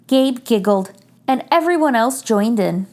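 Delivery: put-on gentle read-aloud for children; story narration. A narrator's reading. Reader sharing a picture book with children, gentle. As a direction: read it like bedtime story time.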